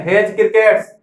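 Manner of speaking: हेज crickets with no separate D in हेज; silent D. Shown as a demonstration. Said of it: "डी silent है". (हेज crickets में डी silent)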